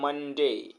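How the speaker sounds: "मंडे" split in two, मन-डे; teacher's two-beat demonstration of "मंडे"; broken into syllables. Shown as a demonstration. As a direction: break "मंडे" after मन, drawing out डे. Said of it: "दो बार इसको हम तोड़ के बोल रहे हैं".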